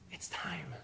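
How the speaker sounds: sharp breathless gasp, then "It's time" hushed; awed gasp. Shown as a demonstration. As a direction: gasp in wonder and breathe the words. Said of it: "cry out and go like".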